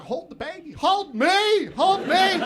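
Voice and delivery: high, loud desperate whine; mock panicked plea. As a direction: beg to be held, hammed-up terror. His panicked plea to nurse.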